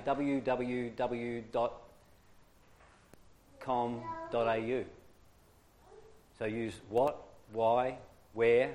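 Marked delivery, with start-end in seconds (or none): 0.0-4.9 w w w dot com dot a u said slowly, letter by letter; slow spelled-out mnemonic. Shown as a demonstration. Teacher spelling out a memory trick, slowly. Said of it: "a little thing that I'm".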